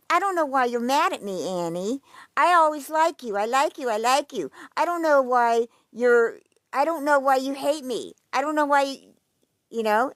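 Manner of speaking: a hammed-up teary whine; mock crying plea. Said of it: "She starts to cry".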